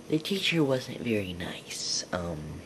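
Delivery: slow whispered aside. Real, not acted. Kid confiding to the camera about his teacher, whispered. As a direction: hush it like a secret.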